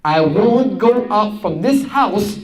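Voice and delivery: a hint of a resolute daughter; determined daughter. Daughter refusing her mother, firm vow. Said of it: "her daughter said".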